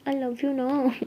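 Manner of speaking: slow stretched "ना" at the end; pleading drawn-out. Acted. Sara wheedles Jaya with a drawn-out plea. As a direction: drag the last word out, wheedling.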